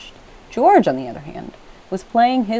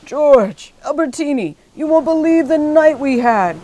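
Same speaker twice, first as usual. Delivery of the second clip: high, loud joyful calling; high, loud rescue cheer; excited shout; 8 semitones higher, 5 dB louder than usual. A narrator's reading. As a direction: call out across the water.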